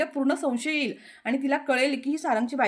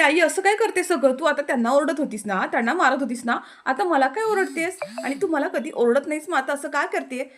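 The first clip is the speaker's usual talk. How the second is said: put-on high, loud whiny child protesting; upset child; 4 semitones higher, 3 dB louder than usual. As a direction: play the hurt daughter complaining to mum. Daughter protests to scolding mother. (रडवेली, चढ्या आवाजात तक्रार करणारी मुलगी)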